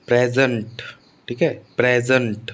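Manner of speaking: प्रेजेंट with the first syllable प्रे stressed, falling away. Shown as a demonstration. Teacher demonstrating the noun rule, प्रेजेंट stressed on प्रे. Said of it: "stress first syllable पर आता है".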